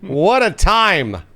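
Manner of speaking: laughing through the words, drawn out. Real, not acted. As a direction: savor it with a laugh. Laughing recollection of drunk gameplay.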